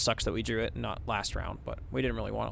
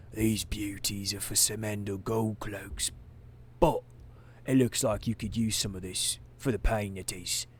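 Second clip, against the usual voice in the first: whispering; 2 semitones lower than usual. Acted. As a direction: whisper like a shady dealer. Shady dealer offers potion.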